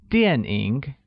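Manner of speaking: 电 drops, 影 dips and rises; slow model 电影, tones clearly shaped; falling, then falling-rising. Shown as a demonstration. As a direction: say 电影 slowly with a fall, then a dip. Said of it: "using a falling tone on A and a falling rising tone".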